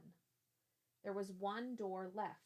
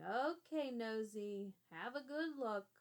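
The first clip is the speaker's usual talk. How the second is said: put-on loud, gruff old man's jeer; shouting; 3 semitones higher, 4 dB louder than usual. Blind man shouting at the peeking boy, gruff. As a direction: bark it at the nosy kid. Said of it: "the man was shouting".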